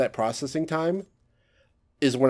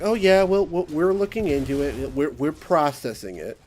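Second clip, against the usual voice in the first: higher, evasive stammering clerk, hammed up; mock agency clerk; 4 semitones higher than usual. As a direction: stall like a flustered office worker. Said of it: "And they're like".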